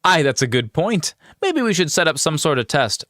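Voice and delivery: lifted, deliberating adventurer voice; game character. Acted. Adventurer proposes testing the new thief, lifted character voice. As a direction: play a companion weighing it up.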